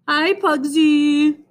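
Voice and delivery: high, drawn-out hello to a dog; friendly greeting. A narrator's reading. Myron greeting Dana's dog, friendly. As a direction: coo it slowly to a pet.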